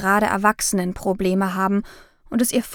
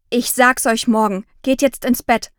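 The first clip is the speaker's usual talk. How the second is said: mild scolding, a touch louder; 2 semitones higher, 4 dB louder than usual. Acted. Mother mildly scolds both children to go to bed. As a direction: order them back to bed, sternly. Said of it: "hat Mama geschimpft".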